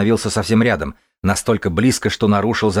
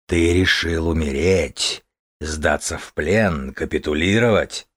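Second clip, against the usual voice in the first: dragon voice; 2 semitones lower, slower than usual. Acted. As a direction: drag it out like a beast. Dragon challenges the hero.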